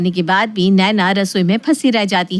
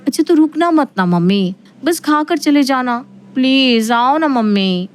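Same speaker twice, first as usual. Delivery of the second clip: put-on higher, wheedling young woman; coaxing daughter; 5 semitones higher than usual. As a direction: coax her mother into coming. Narrator voices daughter Isha.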